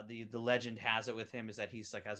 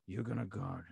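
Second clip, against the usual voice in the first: Doc Rivers voice; 3 semitones lower than usual. Retold or imitated. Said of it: "low, raspy voices".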